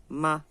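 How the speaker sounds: "ma" short and light, with little force; unstressed, weightless Mandarin "ma"; neutral tone. Shown as a demonstration. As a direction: let "ma" go briefly without a tone contour. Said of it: "o neutro seria".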